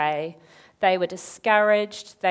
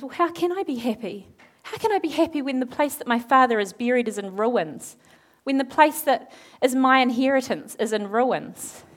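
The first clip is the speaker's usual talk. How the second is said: acted plaintive protest; 3 semitones higher than usual. Nehemiah pleads grief to the king.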